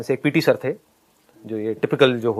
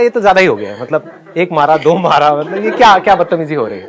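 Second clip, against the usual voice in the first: retold angry outburst; 5 dB louder than usual. Confronting the teacher, angry.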